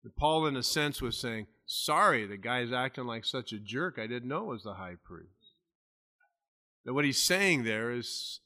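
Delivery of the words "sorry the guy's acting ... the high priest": understated sarcasm, trailing softer and lower; sarcastic apology. Retold or imitated. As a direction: feign a dry apology. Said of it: "Paul was being sarcastic".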